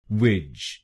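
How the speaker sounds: विज with a short i, not वेज; second syllable alone. Shown as a demonstration. Teacher drills the second syllable, crisp and careful. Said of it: "इसको बोलिए विज".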